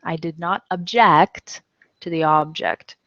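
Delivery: x0.7 careful read of "object" twice; teacher spelling it out slowly; slow homograph demo. Shown as a demonstration. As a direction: obJECT verb, OBject noun, slow and clear. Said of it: "They both look like object or object".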